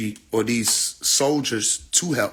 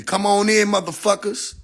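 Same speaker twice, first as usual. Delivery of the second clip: a drawn-out, mocking invite to the vampires; sing-song come-on-in, lightly acted; mock welcoming call; 5 semitones higher than usual. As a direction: play the movie lady cheerfully waving them in. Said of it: "I'm the Asian lady in the damn movie".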